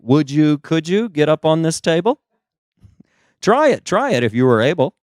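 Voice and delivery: lightly voiced Seussian doctor inviting a patient; Doctor Masseuse. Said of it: "to have Doctor Masseuse be like".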